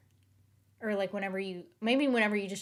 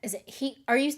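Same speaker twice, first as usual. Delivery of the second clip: ordinary talk, nothing marked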